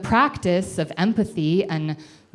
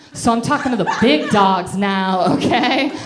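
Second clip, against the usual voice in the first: loud punchline; 3 semitones higher, 6 dB louder than usual. Real, not acted. Comic punchline to audience.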